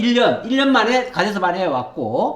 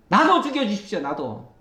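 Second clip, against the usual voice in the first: mild despair; 3 dB quieter than usual. Acted. Elijah despairing plea.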